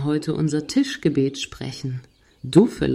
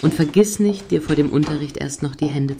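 calling after him. Acted. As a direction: shout after the boy as he runs out the door. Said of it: "das hat er jetzt natürlich nicht mehr gehört".

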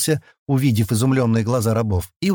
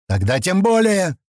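barked retort; 7 semitones higher than usual. Acted. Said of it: "побагровел Сивин и рявкнул".

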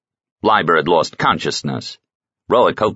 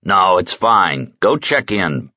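irritated; slower than usual. Acted. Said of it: "scowled at him in irritation".

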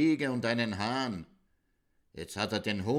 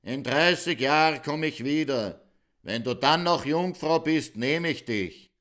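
shouting back; 4 semitones higher, 4 dB louder than usual. Acted. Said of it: "Schreit er zurück".

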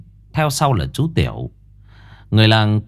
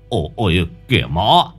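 alarmed shout; 7 semitones higher, faster than usual. Acted. Old man finds drowned boy.

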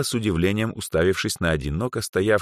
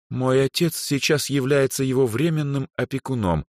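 put-on higher arrogant girl's voice; lofty haughty girl; 8 semitones higher than usual. A narrator's reading. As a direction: look down on him as you say it. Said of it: "высокомерно добавила Эльза".

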